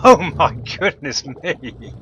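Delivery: slow, loud, delighted astonishment; thrilled and laughing around it; amazed delight. Real, not acted. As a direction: draw it out in real amazement. Amazed watching it fill up.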